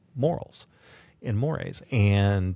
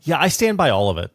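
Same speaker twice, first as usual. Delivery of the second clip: quick, cocky and louder, brushing it off; glib; 4 semitones higher, 6 dB louder than usual. Real, not acted. Cohost defending his own rant, glib and defiant. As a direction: toss it off with a shrug. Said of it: "to be non-glib".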